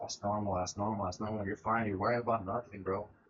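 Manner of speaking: very quiet, unbothered, calm, low, hushed tone. Retelling how grandma reacted to the blood, imitating grandma's calm voice. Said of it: "She's very calm".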